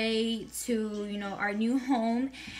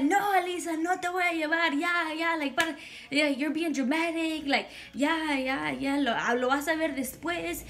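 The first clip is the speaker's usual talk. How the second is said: higher-pitched imitation of an exasperated mother; retold dismissive mom; 4 semitones higher than usual. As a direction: brush off a dramatic child. Mother dismisses child's pleading.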